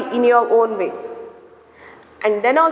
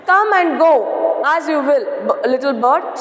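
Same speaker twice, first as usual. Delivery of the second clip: princess's voice. Retold or imitated. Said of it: "she said".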